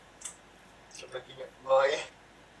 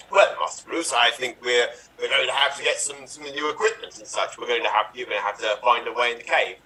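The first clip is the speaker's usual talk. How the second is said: Michael Caine; 4 dB louder than usual. Acted. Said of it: "I'm Michael Caine in this movie".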